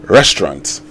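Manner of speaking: "Restaurant" with the final T sounded; English pronunciation. Shown as a demonstration. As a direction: end "Restaurant" on a clear T. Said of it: "With a T at the end".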